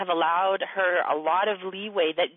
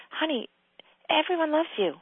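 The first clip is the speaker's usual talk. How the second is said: mild coaxing tone; imitated gentle reassurance; 6 semitones higher than usual. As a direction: soothe a loved one kindly. Voices Aaron gently reassuring.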